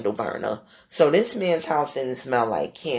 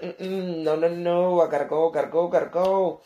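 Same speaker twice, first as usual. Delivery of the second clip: urgent refusal; 5 semitones higher, 4 dB louder than usual. Retold or imitated. Insisting on leaving fast.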